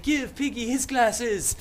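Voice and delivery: high, loud, slow indignant yell; mock angry demand. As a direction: demand it with theatrical outrage. Ralph demanding, acted quarrel.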